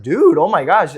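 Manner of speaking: mock amazement with a crack in the voice. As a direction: let the voice break as you relive it. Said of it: "I just cracked my voice".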